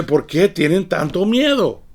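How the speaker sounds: pregunta con enojo leve, algo más aguda; un poquito de ira. Acted. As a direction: reprocha con un toque de ira. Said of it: "lo pregunta con un poquito de ira". (Jesús reprende a los discípulos con un poco de ira)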